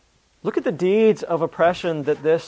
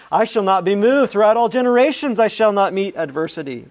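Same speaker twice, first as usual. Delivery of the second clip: louder, higher quote of a boaster; mild mock boast; 4 semitones higher, 4 dB louder than usual. Preacher quoting what the wicked man says in his heart, mildly boastful. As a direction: voice the boast lightly, with confident force.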